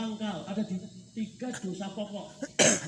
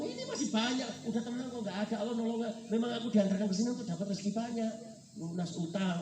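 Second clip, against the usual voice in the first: higher, insistent arguing of the greedy brain; voice of temptation; 5 semitones higher than usual. Acted. The brain urging a fisherman to cast again, persuasive inner voice. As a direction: argue eagerly for one more catch. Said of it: "Kalau bahasa otaknya ngomong".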